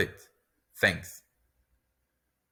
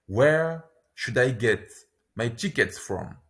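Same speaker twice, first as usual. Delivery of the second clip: Where should I get, pause, my tickets from; slow, in two chunks. Shown as a demonstration. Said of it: "lesson repeats phrase twice".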